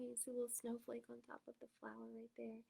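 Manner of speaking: hushed picture talk; whisper. A narrator's reading. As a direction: whisper while pointing. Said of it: "pointing at quiet picture".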